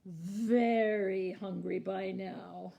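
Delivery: "very" stretched long and loud; drawn-out emphasis. A narrator's reading. Narrator telling how hungry the troll is, "very" drawn out. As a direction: stretch out "very" slowly, then ease off.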